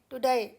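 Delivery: टुडे said as "tu-day" with a flat Indian "e"; Indian-style टुडे, the common mispronunciation; wrong Indian way. Shown as a demonstration. Teacher showing the common Indian टुडे. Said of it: "तो टुडे नहीं बोलेगा".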